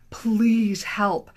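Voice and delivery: whispered plea for help; desperate whisper. Retold or imitated. Client begging her divorce attorney, pleading whisper. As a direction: breathe it out, unvoiced and desperate. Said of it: "and I'm like".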